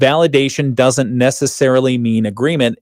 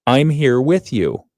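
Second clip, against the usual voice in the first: gentle reassurance; slower than usual. Shown as a demonstration. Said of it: "here's an alternative".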